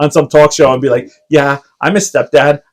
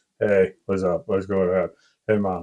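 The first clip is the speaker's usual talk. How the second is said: put-on very low, very quiet, deep teenage boy voice; 7 semitones lower, 14 dB quieter than usual. A mother acts out her sixteen-year-old son coming into the room, imitating his deep voice. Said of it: "he is so deep".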